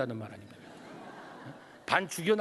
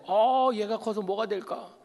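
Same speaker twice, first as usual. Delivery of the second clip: anguished sigh; 6 semitones higher, 7 dB louder, slower than usual. Retold or imitated. Father despairing over disobedient son.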